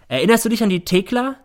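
high, loud relentless accusation; accusing son. A narrator's reading. Son confronting his mother in court about the maid. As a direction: force her to remember.

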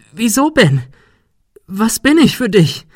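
high-pitched, loud accusing questions; shrieked reproach. A narrator's reading. Girl demands answers from the hiding boy, distraught.

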